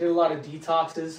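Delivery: plain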